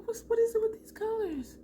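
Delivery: high-pitched, puzzled complaint; squeaky mock exasperation; comic bafflement. Baffled by the colors.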